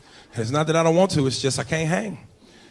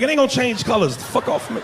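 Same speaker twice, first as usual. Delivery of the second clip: mock annoyed; 7 semitones higher than usual. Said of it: "I was like".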